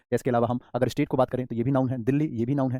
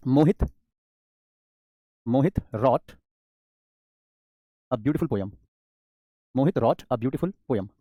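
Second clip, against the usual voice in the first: slow, word by word example sentence; slow dictation; 3 semitones lower, much slower than usual. Shown as a demonstration. Teacher dictating an example sentence, slow and deliberate. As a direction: spell it out for the class to copy. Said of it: "teacher dictates example sentence".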